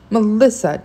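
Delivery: yell. A narrator's reading. Dad cuts in on mom in the car, yelling. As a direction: call her name out sharply, restrained yell. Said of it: "Dad yelled".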